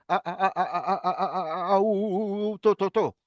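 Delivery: stuck on the first syllable, repeating a-a-a then u-u-u before to; stuttering. Shown as a demonstration. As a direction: demonstrate a child's stutter, syllable by syllable. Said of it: "empieza a decir".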